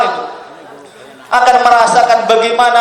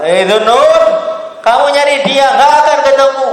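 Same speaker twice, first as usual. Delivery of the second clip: voice without form; 3 semitones higher than usual. Acted. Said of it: "suara tanpa rupa".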